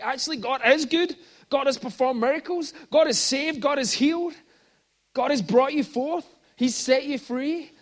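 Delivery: loud, high, fervent declaration; passionate proclamation. Retold or imitated. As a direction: proclaim it with rising fire. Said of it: "But I'm like".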